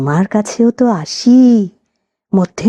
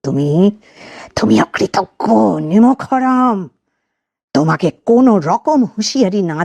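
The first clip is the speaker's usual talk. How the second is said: hissing, suppressed voice. Acted. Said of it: "আরো চাপা, আরো হিস-, হিসিয়ে ওঠা কণ্ঠে বলে".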